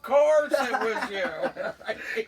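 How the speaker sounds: mock dad teasing, laughing, the last take drawn out slowly; imitating dad. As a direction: tease like dad would, laughing. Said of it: "The old man would have been laughing".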